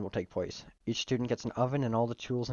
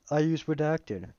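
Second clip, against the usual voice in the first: Southern drawl, raised in pitch; slow Southern-accented character voice; 5 semitones higher, slower than usual. Acted. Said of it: "he is a southern accent".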